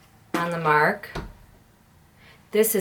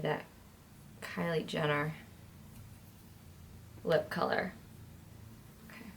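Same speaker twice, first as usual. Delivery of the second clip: whispering on the phone; 2 semitones lower, 15 dB quieter than usual. Real, not acted. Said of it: "Why are you whispering?".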